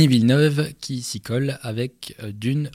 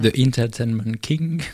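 mock English accent. Shown as a demonstration. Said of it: "avec mon accent absolument incroyable".

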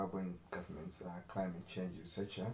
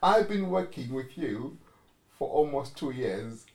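exasperated; 4 semitones higher, 9 dB louder than usual. Retold or imitated. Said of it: "Just like".

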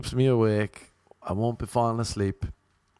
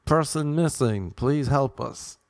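mock plea; 4 semitones higher, slower than usual. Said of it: "You see these, like".

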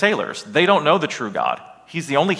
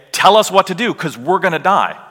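louder, higher, mildly panicked sailors; urgent plea; 5 semitones higher, 4 dB louder than usual. Acted. Scared sailors to Jonah as the storm threatens, urgent plea. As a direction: demand an answer in mock alarm.

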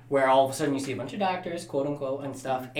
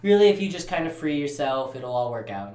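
softer, easygoing advice; retold reassurance; 4 dB quieter than usual. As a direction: gently talk someone down, lightly acted. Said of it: "he's just like".

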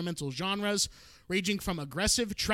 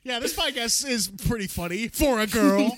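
backhanded compliment; 5 semitones higher, 4 dB louder than usual. Pretend. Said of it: "No, I'm just kidding".

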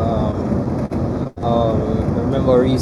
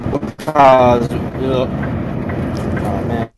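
breaking up; much slower than usual. Real, not acted. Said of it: "You're breaking up".

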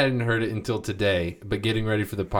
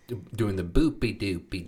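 put-on baby voice. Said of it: "a girl and a baby voice".

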